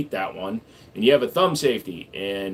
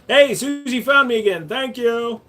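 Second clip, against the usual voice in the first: high squeaky voice; 11 semitones higher, 3 dB louder than usual. Acted. Streamer greets viewer in voice.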